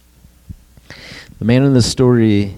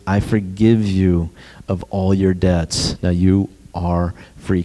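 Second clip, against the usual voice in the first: gentle king; 3 semitones lower than usual. Acted. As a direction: grant it tenderly and slow. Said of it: "the king says".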